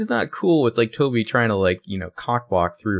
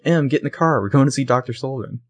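higher-pitched mock command to a friend; bossy urging; 5 semitones higher, 3 dB louder than usual. Hannah ordering Emily into the car, acted bossy urging. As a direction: imitate an impatient order, pitched up.

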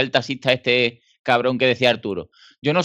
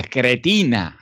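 loving contempt; much slower than usual. Shown as a demonstration. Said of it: "así con, con amor y con desprecio a la vez".

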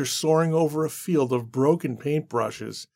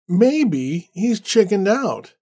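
drawn-out, scornful and higher, deliberately slow; slow mocking sneer; 6 semitones higher, 4 dB louder, much slower than usual. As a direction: sneer it slowly like you never believed in him. Randall mocks the absent painter.

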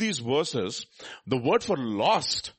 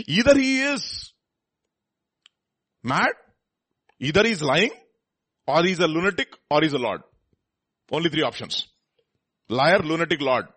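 loud and high, each option hammered out; emphatic preaching; 4 semitones higher, 7 dB louder than usual. Real, not acted. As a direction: pound every option home from the pulpit.

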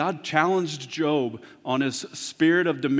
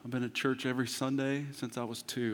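quiet confession; 2 semitones lower, 7 dB quieter than usual. Pretend.

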